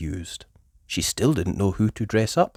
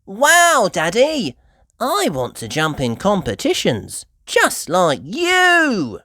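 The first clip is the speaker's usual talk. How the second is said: put-on high, loud, thrilled little girl; excited cry; 10 semitones higher, 7 dB louder, slower than usual. A narrator's reading. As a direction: gush with delight at Daddy. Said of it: "cried Peppa".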